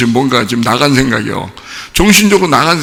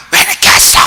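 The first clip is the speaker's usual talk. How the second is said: mock tearful wail; 5 dB louder than usual. Wife hitting her late-returning husband, mock crying wail. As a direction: wail it like a wife hammering his chest. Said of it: "하면서 울고 막 때리고".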